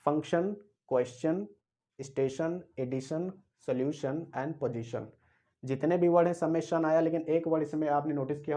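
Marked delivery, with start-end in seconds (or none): 0.1-5.1 measured word-list reading for learners; reading out examples. Shown as a demonstration. Teacher reads example words to students, pronouncing each one. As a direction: read each word out separately, pausing between. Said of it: "मैं उसको पढ़कर सुनाता हूँ".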